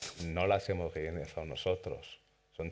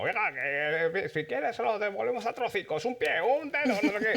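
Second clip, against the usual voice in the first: put-on heavy maño Aragonese accent, rising and louder; slipping into Aragonese accent; 4 dB louder than usual. Kidnapper threatening the wife on the phone, loud Aragonese accent. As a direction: kidnapper losing his cool, Aragonese accent bursting out. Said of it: "de pronto salía el laumaño".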